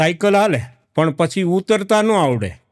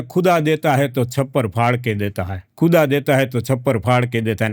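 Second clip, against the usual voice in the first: put-on a Hindi-accented thought, said lower; Hindi-accented aside; 6 semitones lower than usual. Husband thinks in Hindi accent, lower. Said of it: "એના મનમાં વિચારે".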